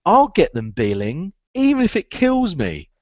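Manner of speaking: determined vow. Retold or imitated. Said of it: "the other one I used to say is".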